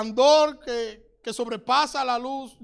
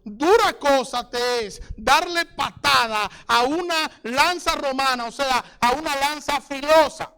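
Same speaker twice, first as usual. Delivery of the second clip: loud, raised preaching shout; forceful warning; 4 semitones higher, 6 dB louder than usual. Acted. The Lord warns Saul about kicking the sharp lance, forceful shout. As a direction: thunder a stern warning, stretching the key words.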